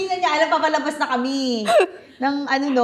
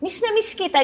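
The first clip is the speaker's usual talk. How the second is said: gushing; 10 semitones higher than usual. Retold or imitated. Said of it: "mom greeting sister".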